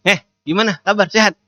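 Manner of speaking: mock high-pitched greeting; acted high-pitched hello; high intonation. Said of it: "Atau intonasinya tinggi".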